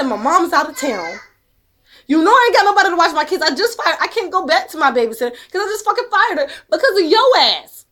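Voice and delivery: loud, fast, rising angry outburst; angry rant. Retold or imitated. Angry retold call with ex.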